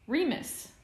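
high, loud scandalized call; accusatory, scandalized. A narrator's reading. James catches Remus picking, scandalized accusation. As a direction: call the name as a shocked accusation. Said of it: "sounding accusatory and scandalized".

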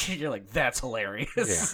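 talking through a laugh; words broken by laughter. Real, not acted. Laughing while retelling.

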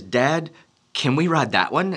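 mildly timid imitated kid; a little intimidated. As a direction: ask lightly as a slightly daunted little boy. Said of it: "he is a little bit intimidated".

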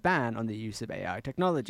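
put-on tentative Australian accent. Player reads for the game, Australian accent. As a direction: feel your way through an Australian accent.

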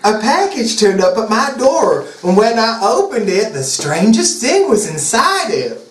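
Southern pop star, wondering. Acted. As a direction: draw out the mystery, Southern style.

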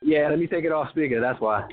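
echoey speakerphone voice; talking on a distant speakerphone. Real, not acted. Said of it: "are you on a headset?".

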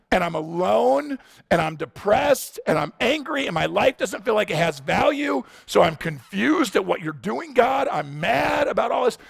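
Elijah's lament, building to an angry cry; voicing Elijah's despair. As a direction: pour out fear and anger, ending in a shout at God. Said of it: "you see all the emotions he begins to pour out".

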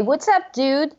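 high, rising greeting on What's up dude; friendly dude. Shown as a demonstration. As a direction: toss out "dude" as a casual hello. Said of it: "you can say".

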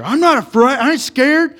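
loud, high mock redneck holler; hammed-up Southern redneck boast; redneck bravado. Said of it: "redneck with the wife beater".

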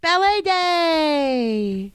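very slow, stretched out ballet day; lingering singsong announcement; drawn-out singsong. Pretend. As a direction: stretch each word like a little tune. Drawn out sung phrase.

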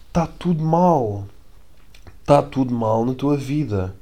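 slow, weighty pronouncement; slow hammed-up condemnation; mock dramatic verdict. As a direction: deliver it like a solemn judge. Dramatic verdict on stranger's post.

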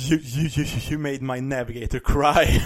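dramatic anime-hero confrontation; imitated hero's accusation. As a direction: push it out forcefully word by word. Hero's accusation acted in retelling.

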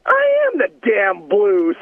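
hammed-up star voice, drawn out; imitating Brett. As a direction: puff up like the famous star brushing off the guard. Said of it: "He goes".

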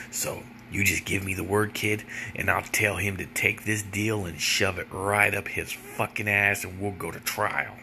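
swagger like a courtroom brawler; tough trial lawyer voice. Retold or imitated. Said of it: "his whole voice changed".

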